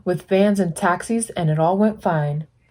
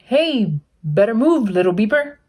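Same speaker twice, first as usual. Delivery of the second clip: mild holler; 3 semitones higher than usual. Acted.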